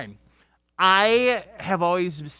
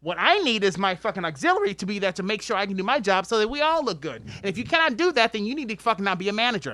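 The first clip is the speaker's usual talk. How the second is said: loud, high, heated telling-off; higher and louder tirade at the managers; retold tirade; 6 semitones higher, 5 dB louder than usual. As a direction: lay into the managers, preaching loud.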